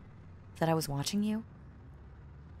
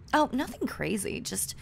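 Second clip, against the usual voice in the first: usual speaking voice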